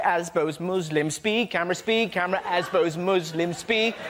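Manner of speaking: lightly chanted list of scares; Daily Mail headlines. Retold or imitated. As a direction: reel off repetitive scare words in a mild parody. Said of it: "The Daily Mail every day".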